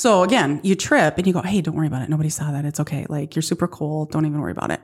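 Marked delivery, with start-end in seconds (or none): 1.4-4.8 softer, lower soothing voice; soft kind self-talk; reassuring. Retold or imitated. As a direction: comfort yourself gently. Kind self-talk after tripping.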